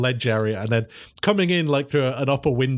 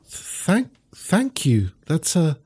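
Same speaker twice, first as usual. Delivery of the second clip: a lightly higher, grateful dog voice; greyhound voice; 5 semitones higher, slower than usual. Acted. Mother greyhound thanking the dog for the sandwich, lightly higher. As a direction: thank him, touched and a little flustered.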